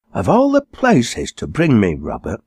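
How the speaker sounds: lightly voiced posh lady, scandalised; snooty exclaiming woman. A snobbish wife complaining to her husband about the pub, lightly voiced indignant exclaim. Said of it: "the woman exclaimed".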